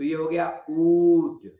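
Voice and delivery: ऊट drawn out slowly; slow teaching pronunciation; slow sound demo. Shown as a demonstration. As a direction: stretch ऊट for the class. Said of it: "third place में ऊ".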